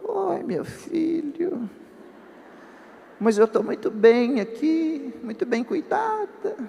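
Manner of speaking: high, slow, drawn-out patient voice; limp, sing-song invalid voice; limp sick mother. Retold or imitated. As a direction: imitate a weak mother, dragging every word up high. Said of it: "Aquela voz mole".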